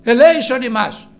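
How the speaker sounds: high, loud pleading call; crying out loud. Retold or imitated. Preacher voicing lepers crying to Jesus, high and loud. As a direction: beg for mercy from afar. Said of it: "φωνάζανε".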